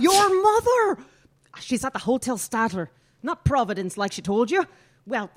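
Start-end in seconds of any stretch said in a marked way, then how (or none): 0.0-1.0 high, loud, drawn-out disbelief; slow outraged shout of astonishment; shocked exclamation. Acted. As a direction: cry it out, stunned. Stunned repeat after "What?.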